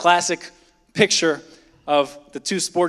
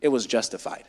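lower, softer self-justifying mutter; a low, soft mock excuse; 9 semitones lower, 7 dB quieter than usual. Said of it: "we say".

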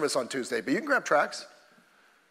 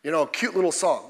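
half-hearted watchman. Pretend. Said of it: "No, there was a specific sound".

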